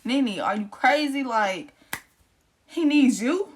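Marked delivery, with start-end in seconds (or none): 0.1-1.2 incredulous. Retold or imitated. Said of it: "That's what I wanted to say".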